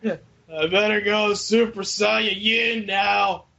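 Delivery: slow, hammed-up power-up yell; mock battle shout. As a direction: shout it like a cartoon hero transforming. Acting Sonic powering up.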